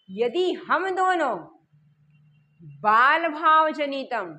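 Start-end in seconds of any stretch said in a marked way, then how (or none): 2.8-4.3 slow recitation. Shown as a demonstration. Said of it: "teacher reciting Sanskrit verse slowly".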